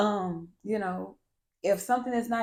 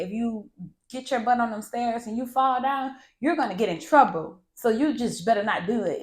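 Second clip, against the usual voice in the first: heightened stern tone; 3 semitones higher, 3 dB louder than usual. Shown as a demonstration. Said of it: "you have to heighten that tone".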